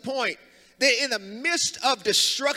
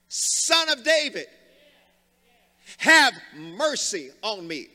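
cried out; 3 semitones lower, slower than usual. Retold or imitated. Blind man crying out.

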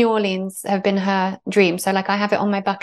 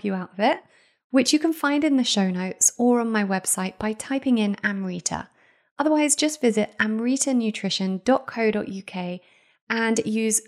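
measured, scripted podcast ad delivery; sponsor ad read; 3 dB quieter than usual. Acted. Host recommends a supplement stockist to podcast listeners, scripted ad read. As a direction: read the sponsor message evenly, phrase by phrase.

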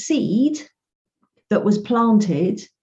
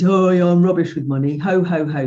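mock jokey laugh. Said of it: "Laugh and joke".

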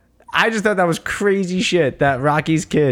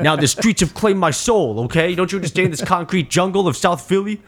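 mock street talk, pitched a bit up; imitated street kid; 4 semitones higher than usual. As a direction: play a kid talking all street. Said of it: "he's talking all street".

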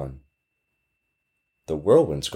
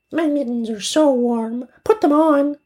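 put-on eager child. Friend offering the girl a coat, high and eager.

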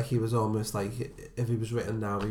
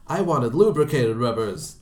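slow, louder imitation of Glazer; mock demand; 7 dB louder than usual. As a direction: lean on each word as the pushy customer. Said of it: "Glazer says".

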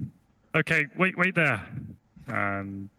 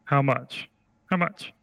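small, high greedy creature voice; a tiny voice haggling eagerly; little high-pitched voice; slower than usual. Acted. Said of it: "the voice is like".

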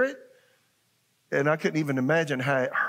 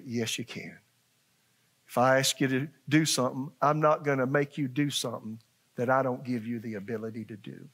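calmly encouraging; reassuring; 2 semitones lower than usual. Retold or imitated. God's reassuring voice imagined.

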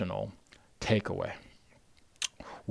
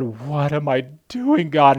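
anguished cry to God; 3 semitones higher, 5 dB louder than usual. Retold or imitated. Father breaks down in hotel.

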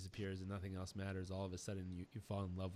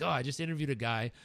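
angry; 2 semitones higher, 6 dB louder than usual. Retold or imitated. Quoting himself angry to wife.

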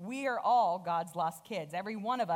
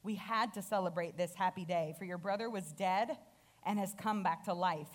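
compassionate. Acted. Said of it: "again with compassion".

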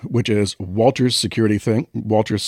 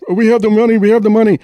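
high frantic yell, much louder; panicked shout; 12 semitones higher, 6 dB louder, faster than usual. Retold or imitated. Walter yelling after kidnappers riding off, frantic shout. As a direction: shout it after the fleeing bikes.

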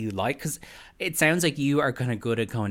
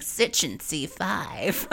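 very slow, higher impression; Erica; 6 semitones higher, much slower than usual. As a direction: stretch each word out like a put-on ad. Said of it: "You could hear her going".

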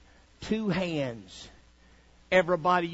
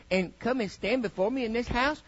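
mock timid God; 4 semitones higher than usual. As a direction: ask it like a God afraid to offend. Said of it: "that's not how he talked".

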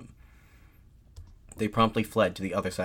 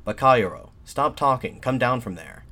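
loud opening curse, raised orders; angry jeer, read aloud; heckler's shout; 4 semitones higher, 6 dB louder than usual. A narrator's reading. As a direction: shout the speaker down from below. Crowd heckles the speaker.

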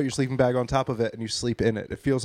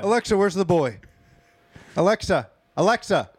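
raised, insistent calls to a device; mock frantic calling; 5 semitones higher than usual. Parent asking Alexa where's the boy, mock frantic. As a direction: call out as if it won't answer.

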